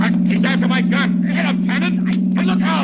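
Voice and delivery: high, loud urgent yells; lieutenant yelling for help in the scuffle; frantic shouting. Acted. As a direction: bellow orders mid-struggle. Struggle over gun in car.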